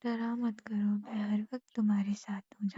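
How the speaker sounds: tender bedtime whisper to a worried husband; reassuring whisper. Real, not acted. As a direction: whisper it gently to calm him.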